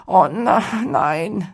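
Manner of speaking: high, loud cry of dismay; appalled, high-voiced protest; horrified. A narrator's reading. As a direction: recoil in comic horror. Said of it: "rief Flaut entsetzt".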